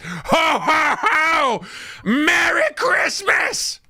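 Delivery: high shouted jolly roar; hammed-up monstrous ho ho ho; monster Santa roar. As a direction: boom it out like a killer Santa. Monster Santa greets victims.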